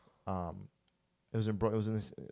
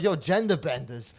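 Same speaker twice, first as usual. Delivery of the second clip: gleeful catchphrase; 4 semitones higher, 5 dB louder than usual. Retold or imitated. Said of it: "That's all I said".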